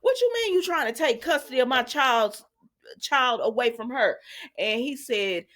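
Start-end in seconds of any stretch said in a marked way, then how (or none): 0.0-4.2 higher, indignant challenge; retold upset confrontation, voice pitched up; mock upset. Mother confronts him over custody of her child, mock upset. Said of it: "she's upset about".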